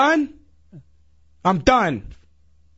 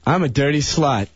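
ashamed, low; 12 semitones lower than usual. Pretend. Repeats the humiliating line.

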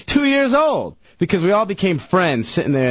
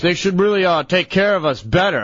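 lightly put-on redneck accent; badly faked redneck twang, slightly raised; 2 semitones higher than usual. Storyteller imitating a complaining waiting-room lady, weak redneck accent. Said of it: "going off in her redneck accent".

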